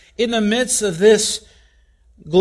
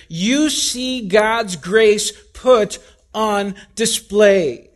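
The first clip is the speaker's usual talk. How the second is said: preaching shout; slower than usual. Acted. Sermon climax.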